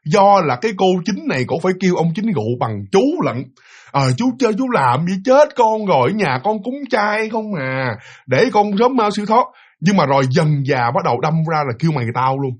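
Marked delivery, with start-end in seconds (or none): 3.9-9.4 high, slow, still-polite complaint; polite ghost reproach. Retold or imitated. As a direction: scold gently but respectfully. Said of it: "vẫn còn giữ được cái gọi là cái lễ phép".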